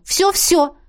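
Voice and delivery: "Всё-всё!" pitched high with a falling end; eager promise. A narrator's reading. Heroine swears to Emmet she'll forgive him, pitched high. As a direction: promise it all in one bright, high burst. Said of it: "пообещала я".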